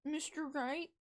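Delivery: high-pitched, questioning character voice; second voice attempt. Shown as a demonstration. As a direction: try the name high, rising at the end. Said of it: "Nope, that's not it".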